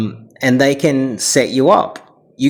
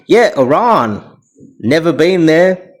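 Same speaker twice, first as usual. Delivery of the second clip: mock simpleton voice; dopey Australian; 3 semitones higher than usual. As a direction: imitate a clueless average Australian. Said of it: "how the average dopey Australian thinks".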